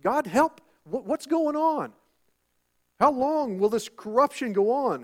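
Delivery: a hint of an anguished believer praying; imitating a desperate prayer. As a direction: plead with God, voice up high. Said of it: "and you're like".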